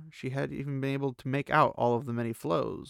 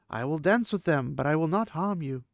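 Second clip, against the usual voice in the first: Aviendha voice; 5 semitones higher than usual. A narrator's reading.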